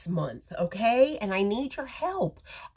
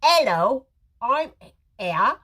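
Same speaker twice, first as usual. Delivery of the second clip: "Hello" lifted and louder, "here" rising; exact sing-song greeting; 4 semitones higher, 5 dB louder than usual. Shown as a demonstration. Host repeating the greeting for viewers to type, sing-song. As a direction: model the greeting for viewers to copy. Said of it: "say it exactly that way".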